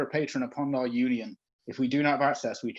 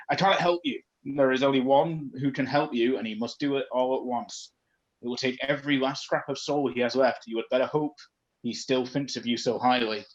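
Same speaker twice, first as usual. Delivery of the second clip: ghost voice. Acted. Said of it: "That hurts my throat".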